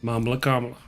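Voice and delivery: Mamla Kamala, low and deliberate, first syllables stressed; proper pronunciation. Shown as a demonstration. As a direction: demonstrate Kamala rhyming neatly with Mamla. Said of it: "telling you how to say it properly".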